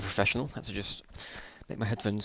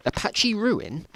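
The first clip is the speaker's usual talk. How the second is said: incredulous echo; 10 semitones higher, slower than usual. Real, not acted. Mocks odd phrase in story.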